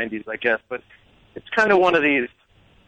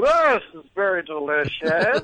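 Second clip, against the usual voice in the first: lightly slurred drunk German impression, pitched up; drunk German chef; 4 semitones higher than usual. Mimicking the celebrity chef on TV, lightly drunk and German. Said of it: "He was very drunk".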